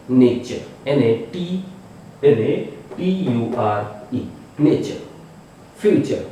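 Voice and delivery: नेचर said with ch, nay-cher; ch sound shown. Shown as a demonstration. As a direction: spell नेचर slowly then say it with ch. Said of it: "चा के रूप में ले लेते हैं".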